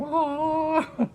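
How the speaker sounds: high-pitched mock scream; long high howl, played for comedy; imitated fighting noise. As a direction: imitate a brawl with a wordless wail. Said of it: "they were, like, fighting".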